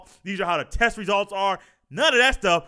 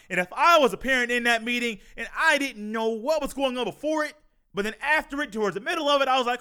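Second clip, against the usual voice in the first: normal talking voice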